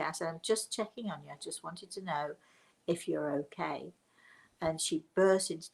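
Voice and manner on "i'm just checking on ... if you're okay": gentle reassurance. Retold or imitated. Speaker checking that a tearful stranger is okay, gentle. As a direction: drop the voice and soothe.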